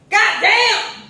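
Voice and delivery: loud, high catcall yell; big mimicked holler of amazement; imitated yell. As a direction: yell it out, floored by what you see. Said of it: "they just yell it".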